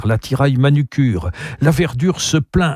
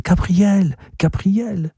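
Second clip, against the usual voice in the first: higher, calling softly down the stairs; hushed call so neighbours don't hear; muted call into the stairwell; 8 semitones higher, much slower than usual. A narrator's reading. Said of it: "crier doucement dans l'escalier".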